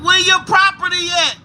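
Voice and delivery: high, incredulous comeback; indignant retort. Retold or imitated. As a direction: retell a baffled challenge. Retold indignant reply through window.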